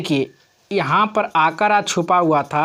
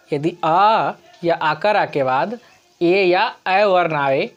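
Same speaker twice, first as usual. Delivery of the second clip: slow rule dictation; slower than usual. Shown as a demonstration. Teacher dictating the rule slowly to students. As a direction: slowly dictate यदि अ या आकारा के बाद. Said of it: "teacher repeats rule slowly".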